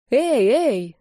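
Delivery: выше и громче, с тревогой; остановить драку голосом; встревоженный окрик. Acted. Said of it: "забеспокоилась я". (героиня вступается за брата, встревоженно)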